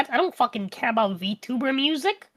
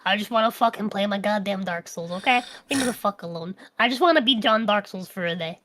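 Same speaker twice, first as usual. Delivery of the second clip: grumpy; 4 semitones lower than usual. Retold or imitated. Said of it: "I have times where I'm just like".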